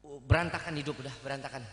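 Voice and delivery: low, groaning lament; mock despair. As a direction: moan that life is ruined. Despairing to wife. (keluhan putus asa yang rendah)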